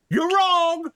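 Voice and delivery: loud, high troll yell; shouted accusation. Acted. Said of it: "one of the trolls goes".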